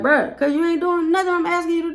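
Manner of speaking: high, strained exasperated voice; exasperated teacher. Retold or imitated. Teacher to defiant student, exasperated high voice. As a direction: pitch it way up in disbelief. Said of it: "I'm like".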